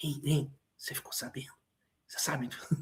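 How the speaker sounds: quiet, secretive whispering. Showing an audience how gossip sounds different from other talk, gossiping tone. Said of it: "A diferença entre a fofoca e o segredo está no tom da voz".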